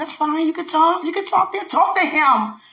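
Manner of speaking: high, loud commanding voice of God; mock divine command; God's stern voice. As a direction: boom it down like God giving orders. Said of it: "you ain't gotta say it like that".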